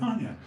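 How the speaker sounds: "Aren't you?" starting high and falling; quick high-pitched falling "Aren't you?"; his inflection. Shown as a demonstration. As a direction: flick "Aren't you?" up high, then drop. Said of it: "my inflection. I went".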